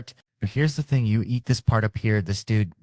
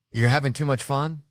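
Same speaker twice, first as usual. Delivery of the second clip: high, loud mock challenge from a wife; mock fun police; 6 semitones higher, 3 dB louder than usual.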